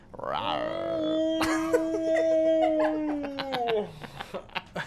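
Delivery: dinosaur voice. Pretend. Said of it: "leave you guys with dinosaur noise".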